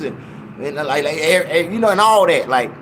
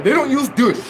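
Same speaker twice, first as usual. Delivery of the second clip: raised-pitch imitation of the church lady's "They don't use douche"; mimicking the lady's accent; 6 semitones higher than usual. Mocking the church lady's phrasing to the crowd, put-on voice. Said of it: "that's the way they say it".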